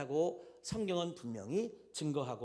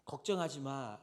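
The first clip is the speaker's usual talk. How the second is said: comforting mother. Retold or imitated. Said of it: "하면서 엄마가 이 아이를 안아줍니다".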